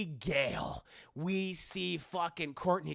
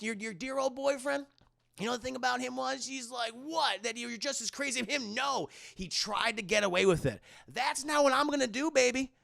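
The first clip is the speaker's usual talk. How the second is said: higher, fast smug villain monologue; gloating villain; 7 semitones higher than usual. Retold or imitated. Killer bragging to Sydney, higher smug gloating.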